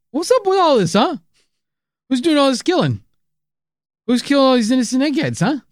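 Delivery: high-pitched mock interrogation; high, insistent, hammed-up questioning; mock demanding. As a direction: demand answers in a comically high voice. Mock interrogation of co-host Art.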